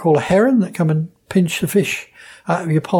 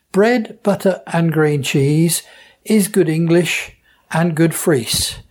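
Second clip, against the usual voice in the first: East Anglian rhyme; slower than usual. Shown as a demonstration. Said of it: "East Anglian fisherman's version".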